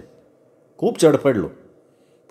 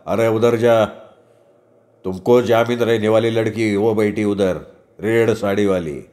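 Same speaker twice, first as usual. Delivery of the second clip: lightly voiced Hindi-speaking constable; a hint of an offhand policeman; 3 semitones lower than usual. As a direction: direct him over like an indifferent constable. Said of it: "तोच हवालदार म्हणाला".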